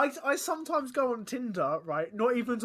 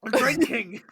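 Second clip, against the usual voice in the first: loud call-out; 3 semitones higher, 8 dB louder, slower than usual. Real, not acted. Calling out while drinking.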